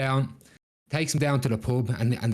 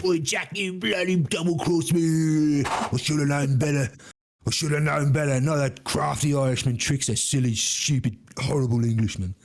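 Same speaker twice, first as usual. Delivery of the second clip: put-on English accent; 2 semitones higher than usual. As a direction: wail at being double-crossed in an English accent. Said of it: "He just sounds like".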